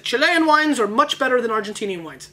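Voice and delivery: put-on a weak, half-hearted French accent; lame French accent. Quoting a guy in the south of France, lame French accent. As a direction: toss off a bad French accent. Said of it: "That was a really lame French accent".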